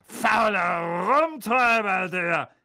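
slow, high scornful sneer; scornful aunt. A narrator's reading. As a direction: spit the insult out. Aunt Marge insulting.

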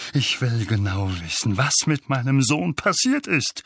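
insistent, booming demand; Onkel Vernon, booming. A narrator's reading. Uncle demands news of his son, booming. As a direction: demand answers like an irate father. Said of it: "dröhnte Onkel Vernon".

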